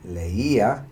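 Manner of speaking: leía with the stress on the Í; accented I. Shown as a demonstration. Teacher giving the answer to learners, stressed accented I. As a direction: lean clearly on the Í in leía, keeping it its own syllable. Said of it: "don't forget the accent".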